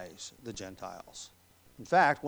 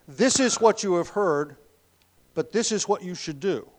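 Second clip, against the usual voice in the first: wrong version of Jesus; 5 semitones higher, 6 dB louder than usual. Shown as a demonstration. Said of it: "Jesus did not say".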